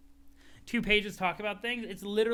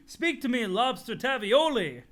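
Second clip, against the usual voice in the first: loud calling; 6 semitones higher, 5 dB louder than usual. Acted. Jake calling to friend.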